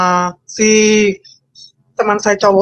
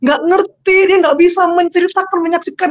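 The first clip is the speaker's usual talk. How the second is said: tearful; 8 semitones higher than usual. Real, not acted. Woman telling her conversion story, on the verge of tears. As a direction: voice cracking as she struggles to recall. Testimony of being overwhelmed by God.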